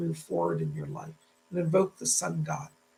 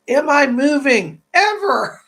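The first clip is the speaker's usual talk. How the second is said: eager question; 6 semitones higher, 9 dB louder, slower than usual. Real, not acted. Hopeful question to spirit.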